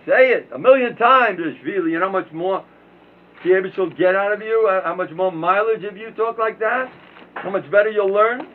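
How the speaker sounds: high, loud urging; exhorting. Acted. Urging the listeners to repeat the phrase, loud exhortation. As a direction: push them to repeat it, fired up.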